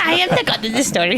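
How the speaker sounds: quick, giggling mock proclamation; playful god-of-the-story boast; laughing boast. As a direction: crow it through a laugh. Echoing the friend's boast.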